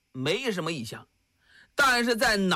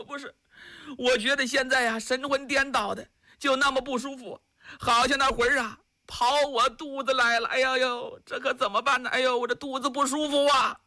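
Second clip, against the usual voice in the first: lightly voiced wife moaning about her belly; a touch of a complaining wife; mild whiny wife; fretting wife; 4 semitones higher than usual. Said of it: "赵氏".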